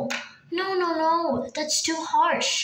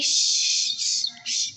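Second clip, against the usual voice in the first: hushing; much slower than usual. Acted. Mother hushing child for the news.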